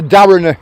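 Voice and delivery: "Darrener" the local Lancashire way, ending in uh; local pronunciation. Shown as a demonstration. Telling a viewer the local word, "Darrener" said the local way. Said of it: "That's what we call it".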